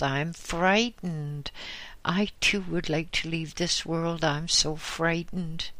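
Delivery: a frightened widow pleading with the Lama; old woman's voice. Acted. Old woman pleads with the Lama, lightly voiced.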